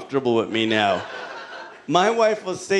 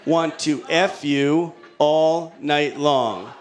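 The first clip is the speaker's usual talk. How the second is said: seductive wife; much slower than usual. Retold or imitated. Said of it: "Jessica replies".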